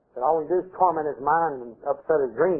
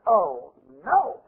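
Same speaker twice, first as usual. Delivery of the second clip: raised, drawn-out lament; mock dismay; 4 semitones higher than usual. Father finds out about the baby, mock dismay. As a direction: lightly imitate a dismayed reaction. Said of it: "When the father finds out".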